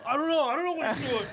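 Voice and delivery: high, loud stage-guy outburst; imitated high-pitched yell; retold yelling. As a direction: yell it like a flustered stagehand mid-argument. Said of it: "he's, like, yelling at somebody".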